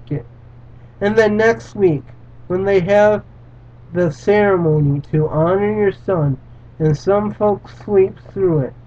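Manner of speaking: earnest read-aloud narration; steady dramatic storytelling voice; story reading. A narrator's reading. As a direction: read it like a solemn parable.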